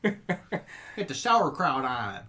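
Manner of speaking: put-on slow Chicago accent, laughing; drawn-out Chicago accent. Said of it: "bad Chicago accents".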